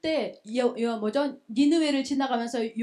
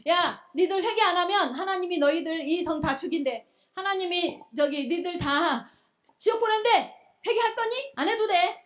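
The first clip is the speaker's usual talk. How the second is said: higher-pitched, grudging mock warning; annoyed preacher who couldn't care less; irritated Jonah; 5 semitones higher, 3 dB louder than usual. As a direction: deliver the warning as if fed up. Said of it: "얼마나 짜증이 나는지".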